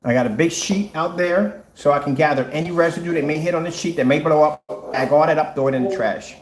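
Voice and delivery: talking through a face mask; muffled behind a full mask. Real, not acted. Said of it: "That's why I sound muffled".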